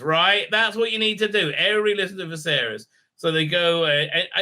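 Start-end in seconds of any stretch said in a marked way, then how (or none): 1.5-2.9 rattled off fast at normal pitch, "Everybody" without lift; quick repeat. Shown as a demonstration. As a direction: toss off "Everybody listen to Viserys" quickly as an aside.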